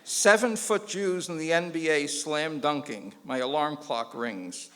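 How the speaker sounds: slow, measured poem recital; deadpan slow poem; haiku reading. Shown as a demonstration. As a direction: read it like a solemn haiku. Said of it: "Jewish haiku".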